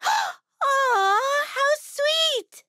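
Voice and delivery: high, cooing gratitude; touched delight. Acted. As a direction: coo it high, touched by the gift. Touched on receiving a gift.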